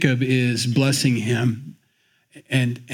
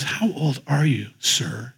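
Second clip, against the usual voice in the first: respectful; slower than usual. Shown as a demonstration. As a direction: ask gently, with deference. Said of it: "It's respectful".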